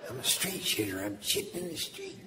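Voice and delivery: high, eerie ghostly moan; wailing ghost. Pretend. The dead woman's ghost wailing in the desert, high eerie moan.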